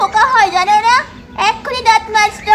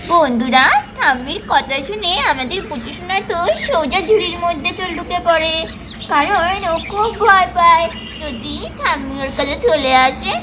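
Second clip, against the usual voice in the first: story narration. A narrator's reading. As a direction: narrate gently to the viewers. Narrator explains boy hides.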